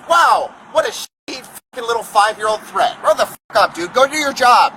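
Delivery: furious, contemptuous outburst; angry. Real, not acted. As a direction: snap at him in disgust. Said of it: "I'm mad".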